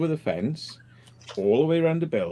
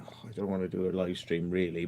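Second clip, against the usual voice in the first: much softer, drained grumble; tired mumble; 5 semitones lower, 8 dB quieter than usual. Retold or imitated. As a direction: let it sag like you're knackered. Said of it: "I'm just like".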